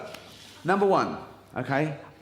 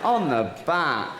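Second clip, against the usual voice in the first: acted bedroom bossiness. Acting out the sex scene.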